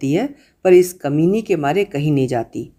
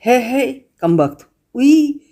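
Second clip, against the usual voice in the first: rising higher and louder into a squeal; frightened shriek; 8 semitones higher, 3 dB louder, slower than usual. Acted. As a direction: recoil in disgust and fright. Mother sees dead mouse, shrieks. (डर से चीखती हुई)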